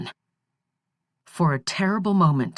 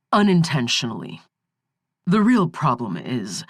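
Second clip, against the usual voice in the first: soothing. Acted. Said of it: "speaking soothingly".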